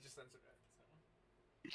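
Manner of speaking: slow hushed whisper. Pretend. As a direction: drop to a breathy hush, slowing right down. Joking that it would be bleeped.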